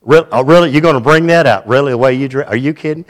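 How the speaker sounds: hammed-up scoffing comeback; mock incredulous Puritans. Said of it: "They look at us and go".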